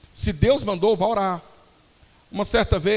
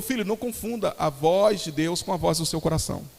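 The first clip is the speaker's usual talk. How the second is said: slow, measured retold admonition; very serious. Pastor correcting a young musician, very serious. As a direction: imitate a grave pastor, weighing each phrase. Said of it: "bem sério".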